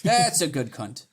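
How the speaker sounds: cheeky mock-Australian praise; broad Australian with a laugh; Australian accent. Praising the meditating listener, joking Australian accent. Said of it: "I can say it in that accent".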